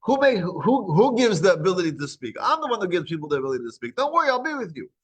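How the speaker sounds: understated divine rebuke; mildly angry God. Retold or imitated. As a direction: scold lightly, then reassure. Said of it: "God gets a little angry".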